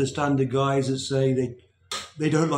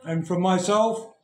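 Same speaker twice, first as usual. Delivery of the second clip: talking while chewing; mouth full. Real, not acted. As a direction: speak through a mouthful. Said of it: "got my mouth full again".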